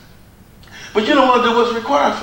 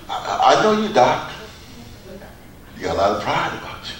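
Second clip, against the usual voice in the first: accusing brother; 11 semitones lower, 7 dB quieter, faster than usual. Retold or imitated. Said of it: "Watch how they try to twist it on you".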